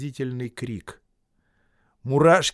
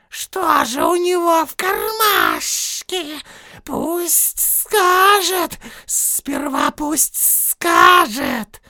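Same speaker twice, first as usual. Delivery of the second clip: much higher, very slow hissing; suspicious Gollum; 8 dB louder, much slower than usual. Acted. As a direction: drag out the suspicion, menacing.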